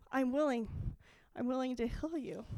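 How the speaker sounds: soft, gentle promise; willing Jesus. Retold or imitated. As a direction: say it tenderly, reassuring. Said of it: "But he goes".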